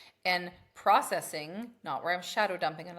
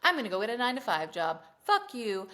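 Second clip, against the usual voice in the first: mock tantrum; 4 semitones higher, 5 dB louder than usual. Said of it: "I was just fucking tantruming".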